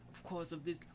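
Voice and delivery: put-on a half-hearted British accent, drawn out. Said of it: "That's not how he sounds".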